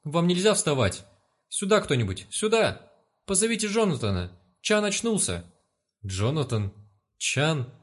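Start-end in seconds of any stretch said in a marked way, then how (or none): 0.0-5.5 higher panicked calls for help; frightened calling out. Acted. Nurse calling others to the waking patient, higher panicked shout. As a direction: shout for help, scared stiff. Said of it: "прокричал перепуганный женский голос".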